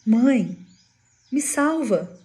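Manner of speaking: mock a child's plea, rising on the last words; frightened cry for help. Son begs his mother to save him, acted frightened cry. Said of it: "o filho gritava de pavor".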